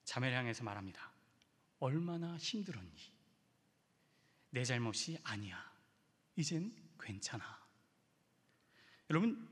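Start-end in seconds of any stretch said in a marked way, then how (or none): 1.8-7.7 gentle comfort. Retold or imitated. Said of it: "뭐라고 했냐면".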